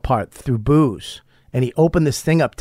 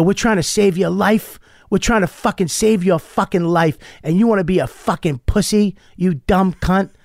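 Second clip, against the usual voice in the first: higher-pitched mock scolding with exasperated force; retold yelling; 5 semitones higher than usual. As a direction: imitate a fierce tough-love telling-off. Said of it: "he started yelling at this kid".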